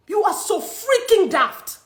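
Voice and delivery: slow, angry and emphatic; slow furious jab. Real, not acted. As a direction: spell out the insult with anger. Calling out newspaper.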